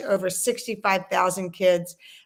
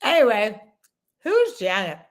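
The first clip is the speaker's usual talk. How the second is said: mouth full. Real, not acted. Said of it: "bad time to put ice in my mouth".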